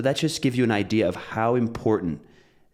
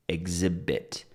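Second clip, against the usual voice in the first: "exhibit" with the stress on its second syllable; 4 dB quieter, slower than usual. Shown as a demonstration. Teacher models the word for class, "exhibit" stressed on the second syllable. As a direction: say "exhibit" leaning on the middle syllable, first one reduced. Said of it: "where is the stress? It's exhib".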